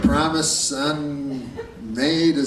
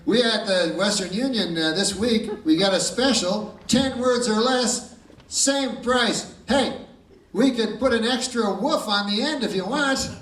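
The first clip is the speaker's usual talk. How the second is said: higher-pitched clerk pushing a special; telegraph clerk sales pitch; 6 semitones higher than usual. Retold or imitated. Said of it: "He goes".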